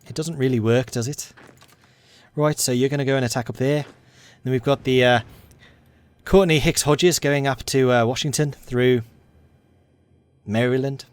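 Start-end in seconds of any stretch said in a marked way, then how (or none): 2.4-11.1 lightly put-on Liverpool accent; a hint of Scouser; Scouse accent. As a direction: keep up a mild Scouse accent. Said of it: "in a Scouse accent".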